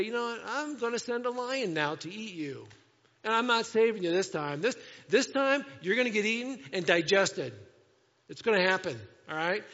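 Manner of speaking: a hammed-up stern warning; threatening God. God warns Jonah a lion will eat him, in a mock threatening voice.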